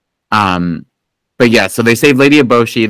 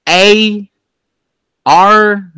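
mock British accent; 10 semitones higher than usual. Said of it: "I don't know what English people say".

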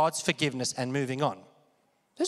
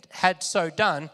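ordinary delivery

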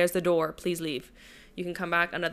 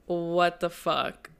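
stunned nurse; much slower than usual. Retold or imitated. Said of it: "She was like".

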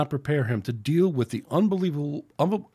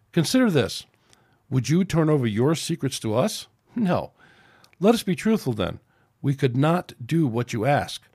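firm captain. Acted. Captain addresses the Orion council.

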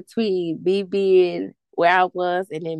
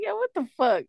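mock shock; 8 semitones higher, 4 dB quieter than usual. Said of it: "I was like".

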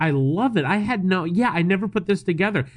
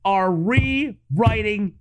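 slow, higher-pitched proclamation; mock-grandiose; 5 semitones higher, much slower than usual. Host hailing their own history scoop, mock-grandiose. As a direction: draw it out like a grand announcement.

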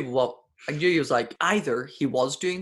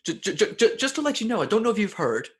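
higher, stammering polite warning; timid stammering voice; 5 semitones higher than usual. Retold or imitated. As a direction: nervously stutter out a warning. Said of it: "it was like".

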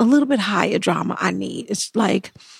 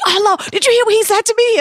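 mocking a whiny client; 11 semitones higher, 3 dB louder, faster than usual. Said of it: "He was like".

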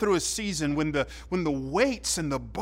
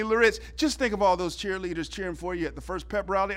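coach encouraging; 2 semitones higher, faster than usual. Retold or imitated. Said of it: "He says to me".

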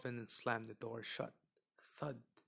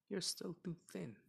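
complaining witch; 7 semitones higher than usual. Acted. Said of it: "she complained".

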